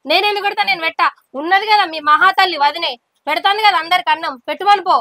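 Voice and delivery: snappish, irritated domestic retort; angry refusal. Acted. Wife refusing to serve husband food, irritated anger. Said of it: "అంత కోపానికి వస్తావు".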